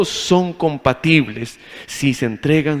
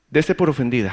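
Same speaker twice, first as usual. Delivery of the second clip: mock insult. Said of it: "quiero ofenderla, le digo".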